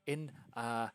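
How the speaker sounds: fast, excited stammering impresario; lightly voiced flustered theatre manager; excited hostess. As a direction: babble the plan out breathlessly. GM voicing hostess casting roles.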